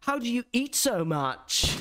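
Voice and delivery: put-on high, slow posh-boy accent; imitated posh accent. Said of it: "that's the accent of the people".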